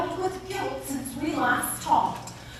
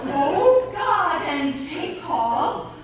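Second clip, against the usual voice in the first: laughing, higher pitched; 7 semitones higher, 3 dB louder, much slower than usual. Acted. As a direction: giggle through the words. Nun laughing at the trick.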